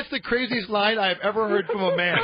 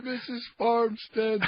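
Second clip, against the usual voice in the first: drawn out and quieter; slow quiet repeat; 4 dB quieter, much slower than usual. Shown as a demonstration. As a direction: savour each syllable slowly, softly. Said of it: "repeats the name slowly".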